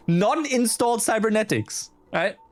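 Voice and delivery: high, slow giggling words; laughing. Real, not acted. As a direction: laugh through it. Laughing at the profile.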